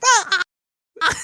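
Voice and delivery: imitated wailing "ah"; mock crying. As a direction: act out a man bawling. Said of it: "crying in the room".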